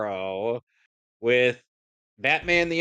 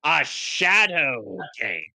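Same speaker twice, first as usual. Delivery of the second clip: slow dramatic; 3 semitones higher, slower than usual. Retold or imitated. Quoting abridged villain.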